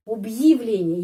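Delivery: Объявление said clearly, ъя as a light y; slow pronunciation demo. Shown as a demonstration. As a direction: say Объявление carefully, syllable by syllable. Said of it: "huruf ya tidak mendapat penekanan". (contoh pengucapan Объявление)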